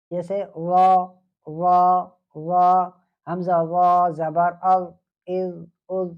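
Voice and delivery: slow drill of the heavy ظ; tajweed teacher drilling zaa; heavy letter drill. Shown as a demonstration. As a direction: spell out حمزہ وا زبر از with a full ظ. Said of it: "وا جو ہے وہ پر پڑھا جانے والا حرف ہے".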